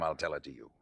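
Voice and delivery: low, soft, controlled repeat; subdued insistence. Acted. Boyfriend telling her for the last time, subdued insistence. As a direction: bring it right down, restrained. Same words, anger now checked.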